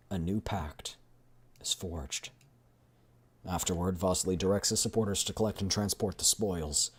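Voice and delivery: measured, dramatic game narrator; story narration. A narrator's reading. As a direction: read the scene as a storyteller.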